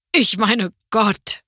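slow, deliberate; sincere. A narrator's reading. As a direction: say it slowly and earnestly. Grandpa's earnest reply.

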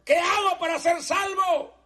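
high, slow shouted question; desperate plea. Retold or imitated. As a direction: plead with every word stretched out. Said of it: "el hombre desesperado".

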